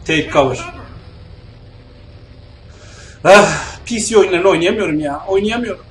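normal talking voice

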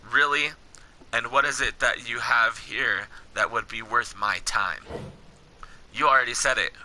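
low, measured game-dialogue read; story dialogue reading. Acted. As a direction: read the wasteland encounter steadily, below your chat pitch. Reads game dialogue aloud.

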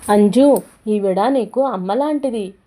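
a loud, fond call to the daughter; loving call. A narrator's reading. Father calls his daughter to meet her stepmother, loud and fond. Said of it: "ప్రేమగా అన్నాడు సుధీర్".

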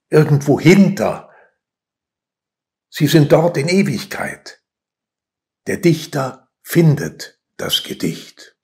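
measured poem reading with weighty pauses; solemnly paced verse reading; poetry recitation. Acted. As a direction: recite line by line, letting each land.

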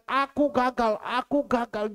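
high, loud imitation of despair; retold distraught cry. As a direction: act out a despairing outburst, without real tears. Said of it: "dia menangis terus, sampai dia katakan".

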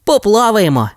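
high happy pup cry; Rocky cheerfully agrees to swim; joyful agreement. Acted. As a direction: agree with delight, voice jumping up. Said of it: "з радістю погодився Рокі".

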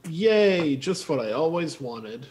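sarcastic yay, just what I wanted; sarcastic praise. Acted. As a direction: fake delight at a bad result. Sarcastic cheer at bad dice.

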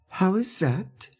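slow, high, puzzled question; odd, drawn-out query; queer voice. A narrator's reading. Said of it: "in a queer voice".

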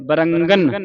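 ਬਰੰਗਨ ending on a clear dental n; dental final n. Shown as a demonstration. Teacher drills the letter nanna, ਬਰੰਗਨ with clear final n. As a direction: sound the last n of ਬਰੰਗਨ fully. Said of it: "ਨੰਨੇ ਦੀ ਆਵਾਜ਼ ਉਚਾਰਨ ਹੋਵੇ".

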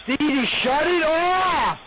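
pleading breathlessly between laughs; begging through laughter. Real, not acted. Player begging Stevie to stop, crying with laughter. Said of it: "I can't fucking breathe".

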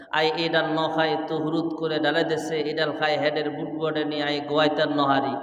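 a hint of Noakhali dialect, low and soft. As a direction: mimic Noakhali speech lightly. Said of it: "এদের আঞ্চলিক ভাষা".

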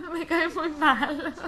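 "Me caes muy mal" drawn out slowly through a laugh; slow, giggling mock insult; slow laughing jab. Real, not acted. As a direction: tease the Reaper while giggling. Teasing the Reaper, laughing.

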